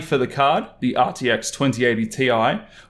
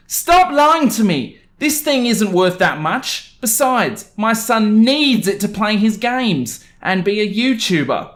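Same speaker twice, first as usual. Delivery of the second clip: much higher, louder, slow outburst; entitled mum, shrieking; 8 semitones higher, 4 dB louder, slower than usual. Acted. Entitled mum yelling at the employee that the card isn't worth it, high and loud. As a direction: explode at the employee over the price.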